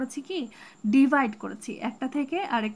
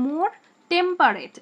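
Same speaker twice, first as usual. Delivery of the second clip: slow scansion; 4 semitones higher, 6 dB louder, much slower than usual. Shown as a demonstration. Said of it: "টেম্পারেটে দুইটা syllable".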